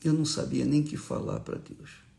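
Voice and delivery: ordinary talk, nothing marked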